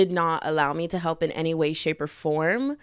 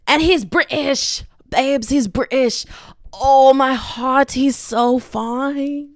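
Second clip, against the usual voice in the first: high, loud, drawn-out gushing; swooning fangirl; 4 semitones higher, 6 dB louder, slower than usual. Real, not acted. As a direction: stretch each word in lovestruck excitement. Swooning over British fictional crush.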